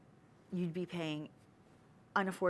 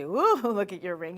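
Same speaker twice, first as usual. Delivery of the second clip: funny voice; 6 dB louder than usual. Retold or imitated. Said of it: "You say it in that funny voice".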